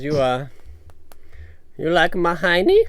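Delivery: high flirty teasing purr; breathy vintage purr. Acted. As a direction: coo it like a seductress.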